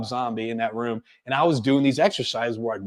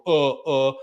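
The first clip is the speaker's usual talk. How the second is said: imitated hesitant stumbling; demonstrating a halting, lost speaker; filler words. Shown as a demonstration. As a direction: stall with spaced-out "uh"s. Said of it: "That's when you have filler words".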